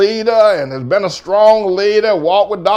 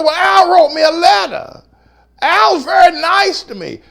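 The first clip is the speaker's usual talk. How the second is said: mock wounded protest pitched much higher; pleading innocence; 11 semitones higher than usual. Pastor answering the doubter with high, hurt insistence. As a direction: defend yourself like a hurt child. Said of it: "I said".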